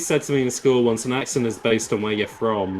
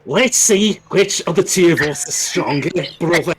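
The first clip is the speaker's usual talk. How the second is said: raised Scouse accent, playing a game rival; Scouse Virgil; 5 semitones higher, 3 dB louder than usual. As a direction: challenge them in a put-on Scouse accent. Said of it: "made Virgil a Scouse".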